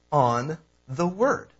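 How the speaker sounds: slow down and lean on "word"; "word" set apart and drawn out; stress on "word". Shown as a demonstration. Preacher showing congregation where Luke puts emphasis, stress on "word". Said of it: "puts the emphasis".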